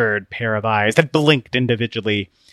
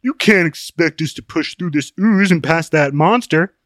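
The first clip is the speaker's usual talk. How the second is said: higher, louder, mildly horrified protest; aghast; 6 semitones higher, 5 dB louder than usual. A narrator's reading. Open-Minded refusing to pass the monster, aghast. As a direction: object in a raised voice, a touch aghast. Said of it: "Open-Minded gasped".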